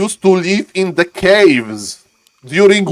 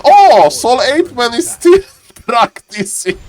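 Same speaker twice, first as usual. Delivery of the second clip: imitating Grabby. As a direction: exclaim it like Grabby, breaking into a laugh. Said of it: "and Grabby said".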